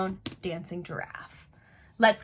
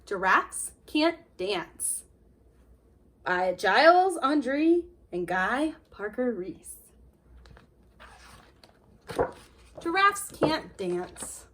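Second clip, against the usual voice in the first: put-on lively read-aloud for children; storybook reading. A narrator's reading. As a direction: read it to a class of little kids, with feeling. Reads picture book to kids.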